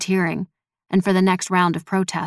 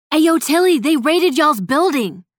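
loud, high, urgent call; breathless; 9 semitones higher, 5 dB louder than usual. A narrator's reading. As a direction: shout the news urgently, higher and louder. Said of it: "Snow said breathlessly".

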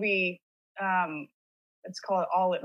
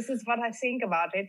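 lightly imitated German accent. Sister quoting her brother's take, imitated German accent. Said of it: "did the scene in a freaking German accent".

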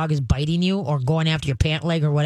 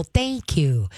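calm praise. Shown as a demonstration. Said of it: "you very calmly go".

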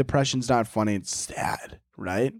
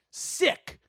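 whispered sick; 14 semitones higher, 4 dB quieter than usual. Acted. Mock whispered reaction.

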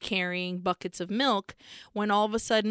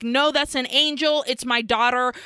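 raised, louder pleading father; insistent shout; 4 semitones higher, 5 dB louder than usual. Retold or imitated. Father shouting to drop gun.

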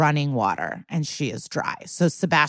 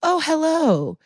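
mock sly greeting; 10 semitones higher, slower than usual. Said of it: "being like".

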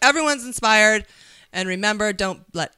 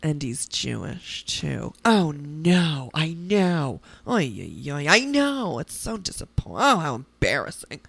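low, soft, sighing kvetching; disappointed Jewish elder; 7 semitones lower, 5 dB quieter, slower than usual. Retold or imitated. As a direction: lament like an embarrassed old aunt. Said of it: "the kind of Jew other Jews go".

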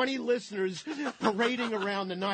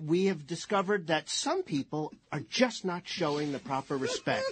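lightly voiced grave TV anchor, laughing through; news anchor intro. Cohost imitating a TV anchor introducing the story, lightly grave. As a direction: intone it like a tabloid news host. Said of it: "see her introducing the piece".

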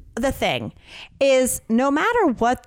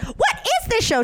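much higher, mock-puzzled old lady voice; squeaky old lady; 13 semitones higher than usual. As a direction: squeak it like a confused ninety-eight-year-old. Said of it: "she'll be like".

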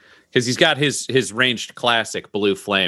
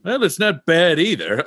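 mild surprise; 5 semitones higher than usual. Acted. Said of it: "and he goes".

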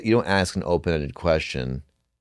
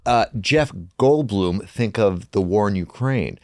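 host impression; 4 semitones higher, 5 dB louder than usual. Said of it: "she'd be like".

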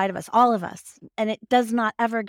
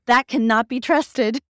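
scolding inner voice; 3 semitones higher, 6 dB louder than usual. Retold or imitated. A mind scolding her for trusting her gut, loud and stern. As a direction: lay down the law like a strict inner critic. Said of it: "my mental intelligence is saying".

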